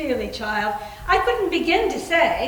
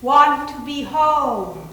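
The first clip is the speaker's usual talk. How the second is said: slow ghostly longing; 5 dB louder, much slower than usual. Acted. Spirit answers through planchette.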